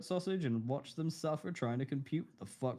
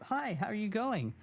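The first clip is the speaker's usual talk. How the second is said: polite greeting; 6 semitones higher than usual. Retold or imitated. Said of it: "level one friendship".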